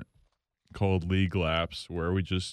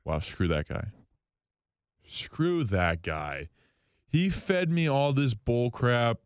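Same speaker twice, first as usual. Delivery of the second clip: mock bitter reaction; slower than usual. Host replaying his first reaction to the signing, mock bitter grumble. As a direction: grumble it like a jilted fan. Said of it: "My, my initial reaction was".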